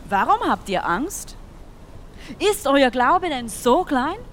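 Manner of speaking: calm authority, slowly; Jesus rebuking calmly. Acted. Jesus answering his scared disciples, slow firm rebuke.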